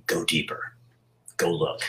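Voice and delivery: a soft, tempting whisper pulling him down; depression's voice. Retold or imitated. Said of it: "it's the person who says".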